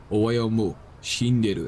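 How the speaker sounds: gruff, clipped mock Japanese with a deep grunt. Shown as a demonstration. Streamer showing chat a Japanese-style grunt, deep and gruff. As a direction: growl it out as a mock Japanese line. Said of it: "that kind of deeper grunt".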